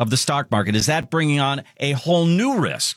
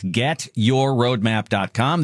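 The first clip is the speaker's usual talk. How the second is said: slow repeated web address; much slower than usual. Acted. Repeated slowly for listeners.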